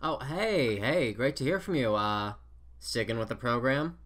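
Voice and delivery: talking through a mouthful of cereal; eating cereal. Real, not acted. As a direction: chew while you talk. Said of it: "I was eating some cereal when you called".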